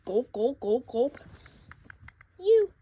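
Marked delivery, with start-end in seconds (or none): 2.4-2.7 hoarse whisper with the throat half blocked; choked whisper. Acted. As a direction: rasp it out after gagging. Choking after a forced drink.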